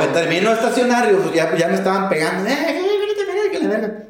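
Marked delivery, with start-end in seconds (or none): 2.5-4.0 mock yell to stop. Workers yelling to stop him.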